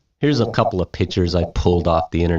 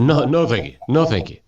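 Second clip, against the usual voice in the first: blurted refusal; 4 semitones higher, faster than usual. Retold or imitated. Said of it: "you blurt it out".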